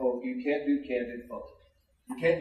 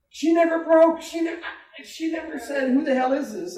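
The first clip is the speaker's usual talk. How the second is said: high, excited, much higher; amazed retelling; 11 semitones higher, 4 dB louder than usual. Retold or imitated. DJ telling his news guy, high and excited. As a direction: squeal it in disbelief. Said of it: "I go".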